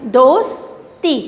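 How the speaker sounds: slow, drawn-out दोस्ती for spelling. Shown as a demonstration. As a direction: stretch दोस्ती slowly for the class. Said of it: "किस तरह से लिखना है". (दोस्ती धीरे-धीरे खींचकर बोलना)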